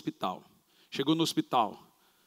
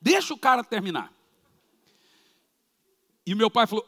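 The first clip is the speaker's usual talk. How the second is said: normal talking voice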